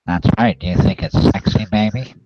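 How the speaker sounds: nasal nerd voice through pinched nose; pinched nose impression. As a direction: hold your nose and leer. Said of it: "sounds like you're holding your nose".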